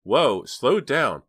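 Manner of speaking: drawn-out plea. Acted. Girl urging her excited friend, drawn out. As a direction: stretch out slow down, high and loud.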